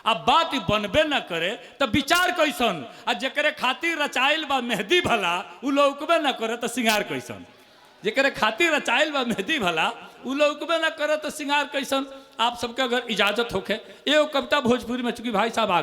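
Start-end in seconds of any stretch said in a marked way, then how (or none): 3.1-7.5 poem line. Acted. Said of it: "सुनिएगा". 8.0-12.1 repeated poem line. Acted. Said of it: "सुनिएगा".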